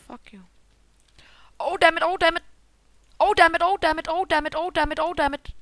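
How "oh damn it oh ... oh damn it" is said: rapid repeated outburst, no gaps; real gamer panic on a loop; panicked cursing. Real, not acted. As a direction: curse over and over in a rush. Rapid swearing in game panic.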